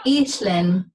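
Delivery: "eathlin" with a blown, voiceless L in the middle; "eathlin" as eat-like ee, juicy hl, in; juicy barred L. Shown as a demonstration. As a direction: blow through the hl of "eathlin". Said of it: "what they say is a juicy sound".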